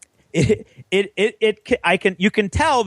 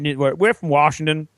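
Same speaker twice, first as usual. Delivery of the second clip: put-on English accent. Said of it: "in an English accent".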